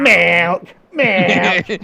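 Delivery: shouted "Milk!" high and loud; shouting. Pretend. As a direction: yell it out, laughing. Silly shouted joke.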